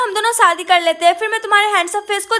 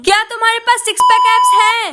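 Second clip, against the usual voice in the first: louder, repeating the question; frustrated louder call; 4 dB louder than usual. Acted. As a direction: push the question out so he hears. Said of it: "मैं इतना चिल्ला चिल्ला के बोल रही हूँ".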